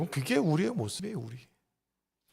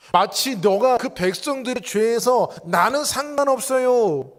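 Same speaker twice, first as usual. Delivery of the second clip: 1 God instructing; 3 semitones higher than usual. Retold or imitated. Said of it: "모세에게 말씀하는 거예요".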